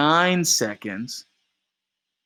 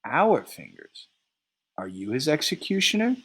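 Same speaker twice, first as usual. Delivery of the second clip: calmly; 4 semitones higher than usual. Acted. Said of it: "Eight calmly".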